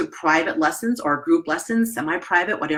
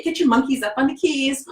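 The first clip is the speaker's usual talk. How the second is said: teacher's prompt; 6 semitones higher than usual. Retold or imitated. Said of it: "I would say".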